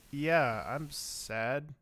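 a mild mock of a robotic line reading; wooden delivery. Imitating a doctor's deadpan answer to a child, wooden. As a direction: say it like a mandroid with no feeling.

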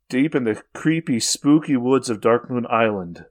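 slow spooky storyteller; horror host. Acted. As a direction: draw out the creepy woods.

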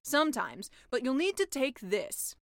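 deadpan the gross detail; sea witch voice. Acted. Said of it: "The sea witch pulled out".

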